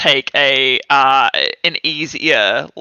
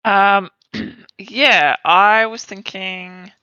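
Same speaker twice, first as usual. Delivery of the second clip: hiccups; 2 semitones higher than usual. Real, not acted. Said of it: "I got the hiccups".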